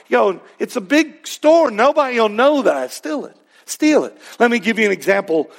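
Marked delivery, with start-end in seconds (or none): 0.1-4.2 higher-pitched, urging tempter; a hint of a persuasive tempter; lightly voiced tempter. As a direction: egg someone on, pitched up. Voicing temptation urging a theft.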